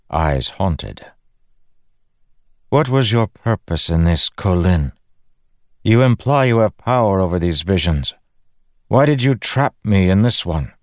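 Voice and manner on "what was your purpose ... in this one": slightly raised voice for a demanding queen; lightly acted accusing questions; Fen, challenging queen. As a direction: question him pointedly, pitched higher. Narrator voices Fen challenging Dalinar.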